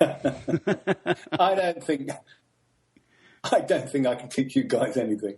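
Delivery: slow, laughing through the words. Real, not acted. Guest laughing off being asked to teach Americans. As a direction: chuckle while protesting modestly.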